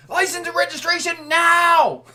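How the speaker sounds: loud, high barked order; mock police shout. Trucker imitating the officer screaming at him, loud. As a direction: bark it like an angry cop. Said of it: "the officer screamed back at me".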